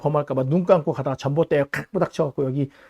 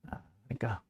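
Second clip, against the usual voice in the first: whispered aside, much softer; 7 semitones lower, 16 dB quieter than usual. Real, not acted. Preacher's aside to congregation, whispered. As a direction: breathe the words under your breath.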